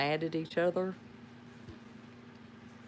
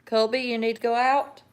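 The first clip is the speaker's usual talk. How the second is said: calling dog; 6 semitones higher, 8 dB louder than usual. Real, not acted. Asking dog to go out.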